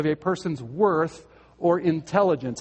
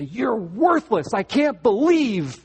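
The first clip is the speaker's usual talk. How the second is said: mock contempt; 5 semitones higher, 4 dB louder, slower than usual. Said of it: "You say".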